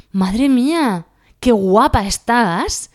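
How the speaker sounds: loud, drawn-out, high admiring praise; slow, loud, delighted compliment. Shown as a demonstration. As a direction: gush it out slowly. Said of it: "Cambia todo con la entonación".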